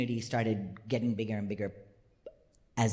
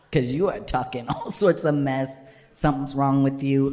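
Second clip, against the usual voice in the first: put-on loud, scolding child's accusation; playfully outraged scolding; mock indignation; 7 dB louder than usual. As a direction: tell off your sister at raised volume. Child self scolds sister.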